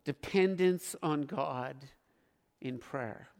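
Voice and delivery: hushed earnest call to prayer. Real, not acted. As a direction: gently urge them to keep praying. Slow soft exhortation to pray.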